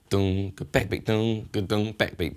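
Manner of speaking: spoken beat with dung accents; vocal groove. Shown as a demonstration. Teacher chants the backbeat groove. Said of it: "sounds weird when I say backbeat".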